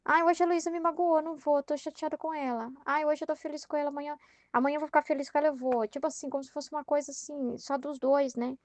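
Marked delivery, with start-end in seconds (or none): 0.0-5.9 mock the petty hurt feelings, lightly hammed; Jesus melindroso imaginado. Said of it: "e ficasse assim, é". (imitando Jesus magoado e caprichoso, em tom de brincadeira)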